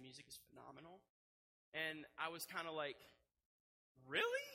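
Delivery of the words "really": much higher, louder incredulous "Really?". Retold or imitated. Pastor retelling his reply to his wife, incredulous and high. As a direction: disbelief shoots up high. Reacting to wife's confession.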